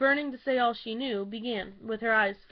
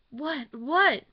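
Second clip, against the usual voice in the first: high, rising alarm; frightened repeated what; alarmed questions; 4 semitones higher, 6 dB louder than usual. A narrator's reading. Dancers alarmed at the news.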